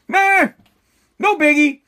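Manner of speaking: dismissive meh, pitched high; mock shrug. Vlogger mocking indifference to riots, dismissive meh. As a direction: toss it off like it's nothing, mockingly.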